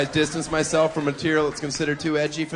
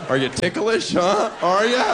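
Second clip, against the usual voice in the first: teasing playfully; 5 semitones higher, 4 dB louder than usual. Retold or imitated. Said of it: "I'll be like".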